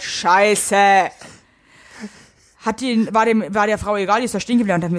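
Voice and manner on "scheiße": retold loud curse. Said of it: "Und ich sag ganz laut".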